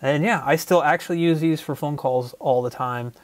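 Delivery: EarPods mic; wired earbud mic. Real, not acted. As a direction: through wired earphone microphone. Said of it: "test of the microphone on the EarPods".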